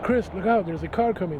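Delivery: calling out a warning, partly re-enacted; retold yell. Cousin warning his brother of a car, retold yell. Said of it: "I heard my cousin yelling out".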